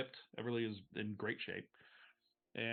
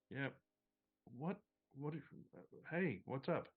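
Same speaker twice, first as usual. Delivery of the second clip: bleary; 4 semitones higher, 3 dB quieter than usual. Acted. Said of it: "sort of blearily gets up and goes".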